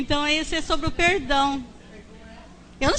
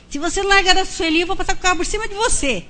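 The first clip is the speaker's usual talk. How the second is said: higher, rapid-fire warning; retold threat; 5 semitones higher, much faster than usual. Mother warning her daughter's boyfriend to back off, retold heated threat. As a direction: re-enact a fierce ultimatum in a rush.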